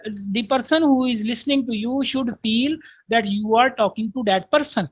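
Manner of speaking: very slow, careful reading aloud of an English text; slow textbook reading. Shown as a demonstration. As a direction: read each English word out slowly for the class. Reads English text slowly. (धीमी, साफ़ अंग्रेज़ी पाठ वाचन)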